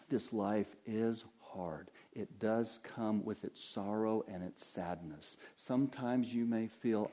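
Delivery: tender pastoral tone; gentle pastor. Acted. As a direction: comfort the grieving gently.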